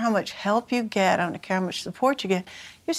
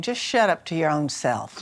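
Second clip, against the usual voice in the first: laughing; 3 semitones lower than usual. Real, not acted. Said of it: "I have this saying".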